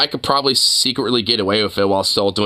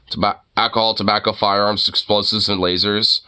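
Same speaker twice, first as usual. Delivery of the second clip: fake Southern accent; 3 semitones lower than usual. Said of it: "the fake Southern voice I've ever heard".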